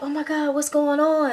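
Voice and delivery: shocked. Retold or imitated. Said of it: "we're in shock".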